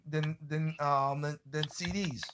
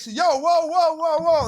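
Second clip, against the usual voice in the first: high, loud repeated whoa to stop the movers; frantic calling out; 11 semitones higher, 7 dB louder, slower than usual. Retold or imitated. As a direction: flag the truck down in a panic.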